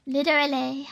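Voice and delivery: "Literally" with a gentler D in the middle. Shown as a demonstration. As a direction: soften the D in "Literally". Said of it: "Maybe I'm saying it with too harsh a D".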